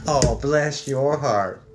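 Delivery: slow mock-sweet "Oh, bless your heart" with a condescending edge; drawn-out fake sweetness, sarcastic. Shown as a demonstration. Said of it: "the vibe behind the words doesn't match".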